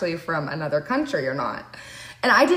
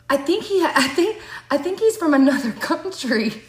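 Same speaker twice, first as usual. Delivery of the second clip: laughing quote; 6 semitones higher than usual. Retold or imitated. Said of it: "he was like".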